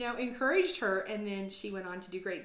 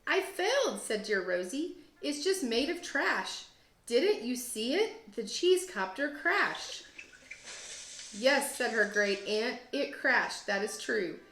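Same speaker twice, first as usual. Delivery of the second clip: gentle, expressive picture-book read-aloud; reading to children. Acted. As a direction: read it like story time for second graders. Teacher reads picture book aloud.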